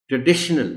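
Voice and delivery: ट्रेडिशनल with the stress on डि; careful model pronunciation of ट्रेडिशनल, D stressed; stress on second syllable. Shown as a demonstration. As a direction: lean on the D of ट्रेडिशनल. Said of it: "डी पर stress के साथ".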